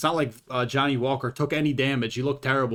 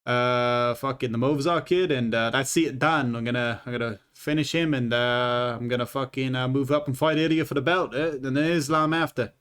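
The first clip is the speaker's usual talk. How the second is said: a lightly put-on, shaky Australian accent; mock a cocky Australian fighter; playful fake Australian brag. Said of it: "that was a shitty Australian accent".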